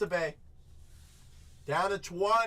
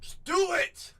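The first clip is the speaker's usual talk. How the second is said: high, loud push to buy; excited urging; 13 semitones higher, 4 dB louder than usual. Real, not acted. Breaker urging a viewer to buy, excited high cry. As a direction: egg the buyer on with a high cry.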